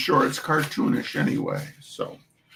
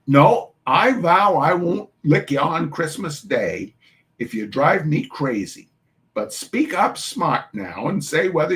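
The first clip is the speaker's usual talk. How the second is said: put-on Irish-tinged New York mum calling the children to chores; New York Irish dialect; 3 semitones higher than usual.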